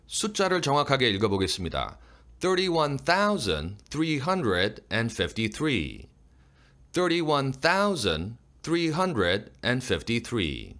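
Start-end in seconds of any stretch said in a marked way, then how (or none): 2.4-10.7 slow number reading, "thousand" stressed over "Thirty-one"; measured reading with "thousand" standing out; more stress on THOUSAND. Shown as a demonstration. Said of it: "thousand에 강세를 더 주는 게".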